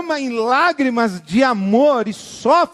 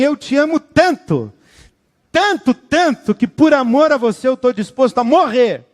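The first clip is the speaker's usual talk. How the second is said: God's loving voice; 3 semitones higher than usual. Acted. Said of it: "Deus olha pra você e diz assim".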